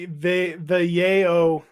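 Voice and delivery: slow, halting try at "yayo"; tentative pronunciation attempt. Shown as a demonstration. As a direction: feel out "yayo" slowly, drawn out as YAY-oh. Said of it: "cannot ever seem to get it right".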